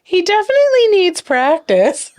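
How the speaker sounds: high, giggly retold reply; laughing punchline. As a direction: quote her while breaking into laughter.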